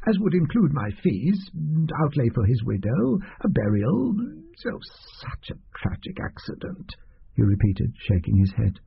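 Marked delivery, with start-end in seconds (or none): 0.1-4.8 lightly voiced, higher, fretful little man; fussy little doctor. Doctor's voice held. 5.2-7.0 whispered, hushed fake sorrow; mock-pious whisper. Doctor's pious murmur.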